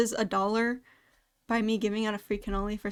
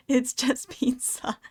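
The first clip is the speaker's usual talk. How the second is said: slow, whispery aside with a laugh; breath-only, drawn-out mock reassurance; amused whisper; 2 semitones higher, slower than usual. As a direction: whisper it slowly through amusement. Laughs off coworkers' stress over pizza.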